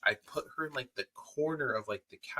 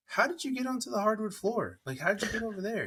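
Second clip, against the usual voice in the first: mock amazement; 11 semitones higher than usual. Mother amazed at baby.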